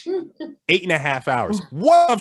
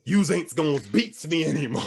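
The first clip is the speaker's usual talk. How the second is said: soulful declaration; 6 semitones higher than usual. Retold or imitated. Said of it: "let out this weird soulful noise".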